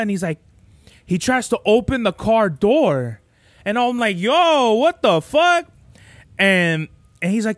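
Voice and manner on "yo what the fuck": retold shocked outburst, pitched up high; higher, alarmed "what the hell" reaction; startled protest. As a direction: exclaim it in indignant disbelief, acting it out. Retelling his shocked reaction to carjacker.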